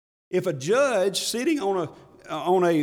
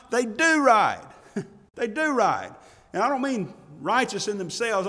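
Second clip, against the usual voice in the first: high-pitched, emphatic sermon delivery; impassioned preaching; 6 semitones higher, 6 dB louder than usual. Acted. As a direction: preach it with urgent conviction. Preaches with rising force.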